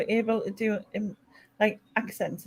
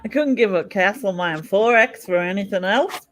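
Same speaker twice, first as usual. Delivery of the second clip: mock Australian ad. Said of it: "I was thinking of an advert".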